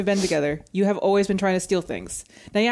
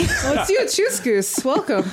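silly clown; 3 semitones higher, slower than usual. Acted. Shopkeeper Choose Goose greets.

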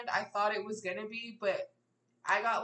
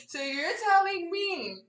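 retold incredulity; 5 semitones higher, 8 dB louder than usual. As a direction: act out appalled amazement, laughing at it. Acts out reaction to the news.

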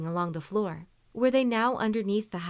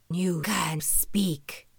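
growling beast; much slower than usual. A narrator's reading. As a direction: drag the words out like a beast. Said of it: "The beast began to growl".

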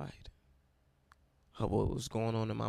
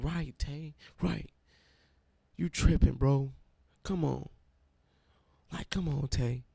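a hint of an excited friend, higher with a loud burst on you tripping; hyped-up friend; 4 semitones higher, 4 dB louder than usual. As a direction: cheer him on like a buddy brushing off his doubts. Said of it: "And then Ray in the back, like".

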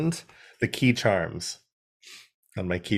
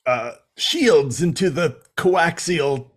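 put-on Wheeljack accent; 2 semitones higher than usual. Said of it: "destitute Plumber Brother accent".

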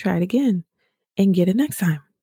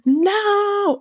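mock dismay. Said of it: "I literally just started going crazy".

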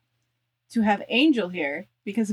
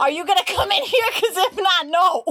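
calling out; 10 semitones higher, 5 dB louder than usual. Real, not acted. Calling partner, laughing.

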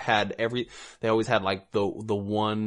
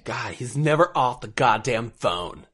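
whiny housemate; 3 semitones higher, 5 dB louder, slower than usual. Retold or imitated. Voicing reality show housemate.

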